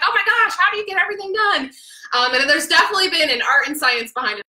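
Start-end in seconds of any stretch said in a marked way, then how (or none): 0.0-1.7 amazed fan. Retold or imitated. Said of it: "They're always like".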